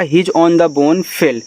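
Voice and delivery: very slow, each word set apart; slow reading aloud. Shown as a demonstration. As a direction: read it out for pupils to follow. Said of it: "यानी कि जैसे उसने भौंकना शुरू किया".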